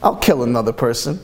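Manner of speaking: glib, quick, offhand yes; breezy mock agreement; mock casual volunteer. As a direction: toss it off like it's nothing. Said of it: "What type of person would say".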